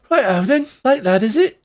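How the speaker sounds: high, loud Cockney doll, knife drawn; a Cockney menace from a creepy doll; slight Cockney accent. A narrator's reading. Doll draws a knife on the party, in Cockney. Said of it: "with a slightly coxy ac-, cockney accent".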